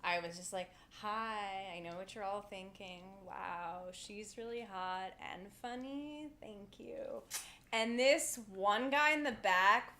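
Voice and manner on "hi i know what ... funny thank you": deadpan. Retold or imitated. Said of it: "real deadpan voice".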